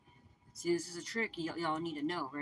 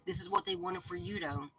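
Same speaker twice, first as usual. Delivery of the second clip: high, sing-song mocking pitch; 14 semitones higher than usual. Reader mocking the schemers in a high voice. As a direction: taunt it up high like a sneer. Mocking repeat of same line.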